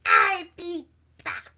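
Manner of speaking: low, slow Terminator line; lightly done Arnold voice; Arnold Schwarzenegger impression. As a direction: drop low and drag it out. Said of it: "Arnold Schwarzenegger impression".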